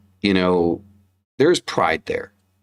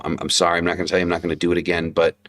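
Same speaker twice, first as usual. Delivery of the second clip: tender apology; 3 semitones lower, faster than usual. Retold or imitated. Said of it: "you know".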